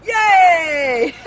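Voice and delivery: high loud yay; joyful shout of yay; cheer. Real, not acted. Cheering the exercise.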